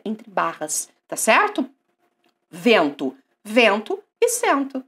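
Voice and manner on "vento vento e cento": vento and cento said slowly, the first sound stressed; contrasting sounds. Shown as a demonstration. Teacher sets vento against cento. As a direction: hit the v and the c to show the difference. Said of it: "olha como faz diferença".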